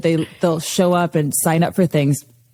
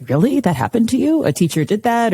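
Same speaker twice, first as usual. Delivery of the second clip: higher-pitched, incredulous questioning; imitated disbelief; 5 semitones higher than usual. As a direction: act out a newcomer's innocent astonishment. Imitates young people's disbelief at story.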